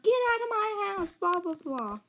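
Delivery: high-pitched mock yell at no great volume; imitated screaming mom. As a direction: mimic a mom ranting, trailing into filler. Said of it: "she starts screaming".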